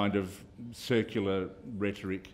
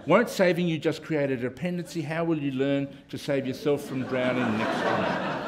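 cartoon character voice; 3 semitones higher than usual. Voicing cartoon character's self-justifications.

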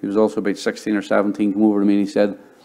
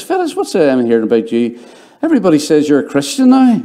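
mock teasing coworker; 4 semitones higher, 4 dB louder than usual. Coworker teasing about being Christian.

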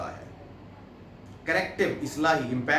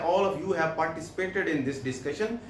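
very slow, word by word English reading; slow dictation; 2 semitones higher, much slower than usual. Shown as a demonstration. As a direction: read it out slowly for the class to follow. Reads English text slowly. (धीमी आवाज़ में पढ़ना)

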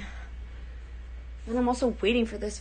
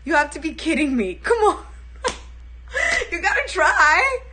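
high, loud mock whine; valley girl whine; 6 semitones higher, 6 dB louder than usual. Valley girl still shrieking in her improv.

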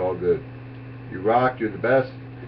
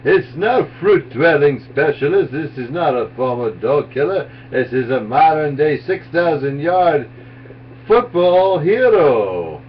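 sportscaster call; 3 semitones higher, 3 dB louder than usual. Acted. Sportscaster play-by-play before impression.

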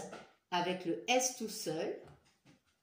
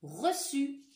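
high, louder reçu; announcing the word; 7 semitones higher, 4 dB louder than usual. Shown as a demonstration. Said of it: "on va écrire".

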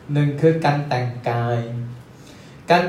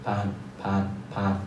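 impatient boss; 6 semitones lower, 8 dB quieter than usual. Retold or imitated. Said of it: "ลูกน้องทุกคนก็จะถูกเร่งตลอด".

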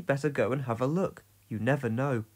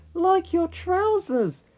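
wry joke; 3 dB louder, slower than usual. A narrator's reading. Pat teasing joke.

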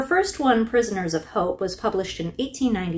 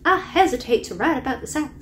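Southern accent; 3 semitones higher than usual. Shown as a demonstration. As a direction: give the quote a gentle American Southern accent. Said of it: "I kinda wanna say that in a Southern accent".

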